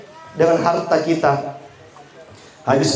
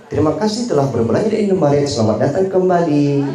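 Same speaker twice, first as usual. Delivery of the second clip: lightly imitated cashier's rehearsed thank-you; a hint of scripted shop clerk; store clerk farewell. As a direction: rattle off the stock line, then draw out the ending. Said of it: "pegawai Alfamart, Indomaret, Alfamidi".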